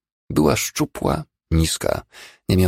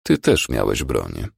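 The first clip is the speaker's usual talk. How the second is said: low, slow, unruffled doctor; calm reply; 7 semitones lower, slower than usual. A narrator's reading. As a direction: answer calmly, lower and unhurried. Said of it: "odpowiedział spokojnie lekarz". (spokojna, niska, powolna odpowiedź lekarza)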